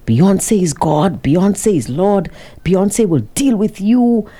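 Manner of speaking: measured re-enactment of her tirade; retold yelling. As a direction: imitate her threat, each phrase drawn out. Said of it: "started yelling at us".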